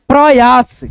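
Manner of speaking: प्रयास in two beats, प्र-यास; syllable-by-syllable reading. Shown as a demonstration. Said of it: "क्या बोलेंगे".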